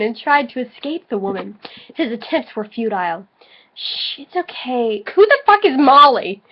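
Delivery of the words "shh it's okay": soft hush. Acted. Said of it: "she whispered".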